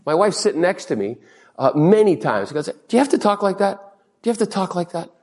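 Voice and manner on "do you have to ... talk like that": imitated nagging wife. Voices wife scolding his driving talk.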